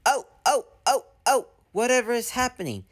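screaming trucks. Acted. Trucks colliding, squealing high in panic. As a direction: shriek in silly panic as they bump. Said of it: "bump into each other screaming".

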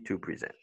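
"to present" as to pre-ZENT, softly; stress on second syllable. Shown as a demonstration. Teacher repeating the verb example, second-syllable stress on "present". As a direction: put the beat on ZENT in "present". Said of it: "quand c'est P R E".

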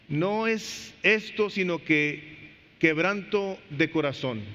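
very slow, drawn-out reading; scripture reading. Acted. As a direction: stretch out each word of the answer. Reading Nehemiah's answer.

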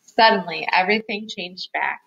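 lively picture-book reading, stressing key words; story narration for children. A narrator's reading. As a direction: read it aloud to little listeners. Reads picture book aloud.

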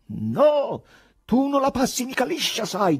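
high, loud, hateful threat; intense hatred. A narrator's reading. Poet threatening the man before striking, hateful. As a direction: threaten with full-voiced loathing. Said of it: "disse con odio intenso".

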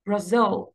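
برازيل as English bruh-ZIL, first syllable snatched; stress on second syllable. Shown as a demonstration. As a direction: clip the start of برازيل and land on ZIL. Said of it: "بخطف المقطع الأول تمامًا". (برازيل بخطف المقطع الأول وستريس على التاني)

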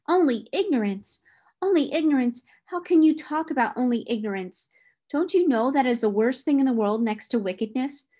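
Only ignorance? thrown back with sharp disbelief; startled indignation. Acted. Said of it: "John's voice almost startled me".

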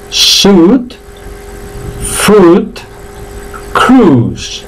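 "Suit", "fruit", "cruise" as "sut", "frut", "crus"; each word stretched and set apart, pure u; silent I drill. Shown as a demonstration. Teacher drills learners, "Suit", "fruit", "cruise" with silent I. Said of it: "vamos otra vez más".

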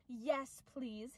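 very soft, shy answer; small hushed voice, suddenly demure; barely-there polite reply; meek reply. Retold or imitated. Her actual meek answer, after squeal.

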